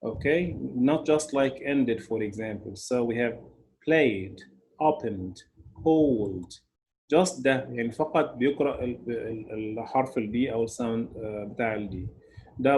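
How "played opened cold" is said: "played", "opened", "cold" each ending in a plain d. Shown as a demonstration. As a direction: say "played" as playd, no extra syllable. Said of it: "it is just read as ده".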